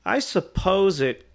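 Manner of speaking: slow, drawn-out pondering; sceptical concession. Retold or imitated. Doubting customer to the artist, slow grudging doubt. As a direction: concede it reluctantly, word by word.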